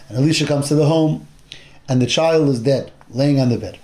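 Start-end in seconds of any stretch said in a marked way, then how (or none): 3.1-3.8 hushed whisper. A narrator's reading. Teacher telling of the dead child, whispered.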